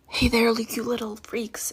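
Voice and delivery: whispered greeting, no voice; whispering. Real, not acted. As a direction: breathe the greeting out unvoiced. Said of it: "I have to whisper".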